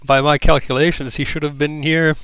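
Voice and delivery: a hint of a curious, kindly creature; mildly voiced old uncle. Hundred answers the child.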